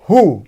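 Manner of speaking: हु with no W sound; just हु, plain H; हु, the W left silent; silent W demo. Shown as a demonstration. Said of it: "एस का उच्चारण कर रहे हैं हु".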